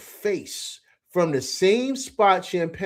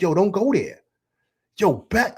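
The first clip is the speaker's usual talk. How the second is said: raised, higher-pitched yell at the players; loud, urgent courtside-style holler; screaming at TV; 5 semitones higher, 5 dB louder than usual. Retold or imitated. Frustrated fan yelling at the television, loud and high. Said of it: "I'm screaming at the television like".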